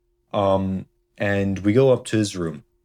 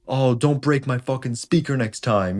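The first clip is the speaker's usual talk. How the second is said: higher, put-on taunting voice; mocking friend voice; 6 semitones higher than usual. Friend taunting Sam after the smash, in a high mocking voice. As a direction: sneer it like a petty kid getting revenge.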